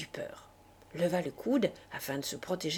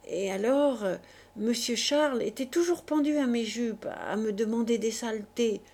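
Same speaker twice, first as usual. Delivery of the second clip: une pointe de voix rauque de fille usée par l'alcool, légèrement jouée; voix rauque éraillée. Acted. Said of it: "de sa voix rauque, éraillée par l'alcool". (une femme du peuple à peine rauque qui raconte son histoire à la comtesse)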